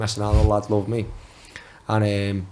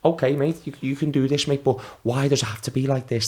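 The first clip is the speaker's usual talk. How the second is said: higher, put-on pleading to the manager; fake innocent pleading; 4 semitones higher than usual. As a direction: play the hurt young boy. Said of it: "That's how I'm doing".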